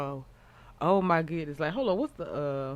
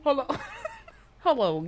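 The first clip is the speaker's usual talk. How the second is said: laughing; 7 semitones higher, faster than usual. Real, not acted. Laughing while interrupted.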